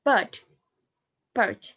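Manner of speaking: "bird" with the R dropped; non-rhotic pronunciation. Shown as a demonstration. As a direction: say "bird" without any R. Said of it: "But in non-erotic accent, we use".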